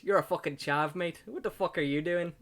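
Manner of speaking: mock English chav that comes out Irish; put-on Irish-sounding accent; botched accent sounding Irish. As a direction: do a bad, Irish-tinged British accent. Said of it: "I sounded Irish".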